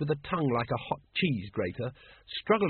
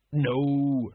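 a firm, slightly louder no; vehement; 3 dB louder than usual. Acted. Colon refuses to warn people, firm and vehement. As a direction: shut the idea down flat. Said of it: "said Sergeant Colon vehemently".

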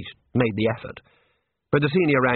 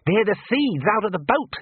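raised, higher voice; urgent calling out; 9 semitones higher than usual. A narrator's reading. Wizard calls to others in the sea, urgent cry. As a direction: call it across the water.

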